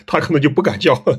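a touch of laughter in the words; amused laughter. Real, not acted. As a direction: chuckle while saying it. Laughs at own warning. (带着笑意说)

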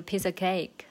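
"piece of" run into "pieca"; of as schwa. Shown as a demonstration. Teacher giving an example, "of" reduced to schwa in "piece of cake". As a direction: drop the F in "of", just uh. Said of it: "这个of都是弱化成schwa".

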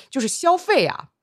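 explaining through laughter; laughing. Retold or imitated. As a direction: giggle while explaining it. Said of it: "然后我就给他说".

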